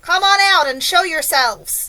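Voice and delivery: loud, high, drawn-out command; shouted order. A narrator's reading. Police chief orders strangers out, shouting. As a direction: bellow it upward, stretching the words. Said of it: "shouted the chief of police".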